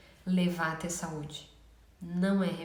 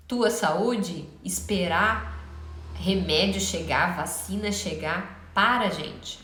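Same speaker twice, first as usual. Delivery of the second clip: louder, preachy rant; rally the crowd, louder; loud soapbox ranting; 4 dB louder, slower than usual. Real, not acted. Closing rallying call to viewers.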